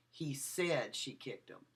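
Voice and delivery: slow, said lifted and stretched; stress on SAID. Shown as a demonstration. Lecturer showing students stress on said. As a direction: lean on said as if doubting it. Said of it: "I changed the emphasis of the word".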